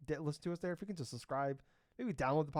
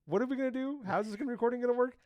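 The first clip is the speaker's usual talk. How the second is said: higher-pitched fretting over plans; mock panic; 10 semitones higher, 5 dB louder than usual. Podcaster voicing worry about next week's recording, mildly panicked. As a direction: fret aloud in a raised, put-upon voice. Acting out own scheduling panic.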